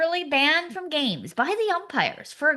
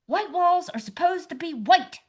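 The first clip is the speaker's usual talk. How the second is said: mock bark, pitched up; barking orders; 6 semitones higher than usual. Marvin to car wash volunteer McCloskey, barking orders. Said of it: "barking orders like".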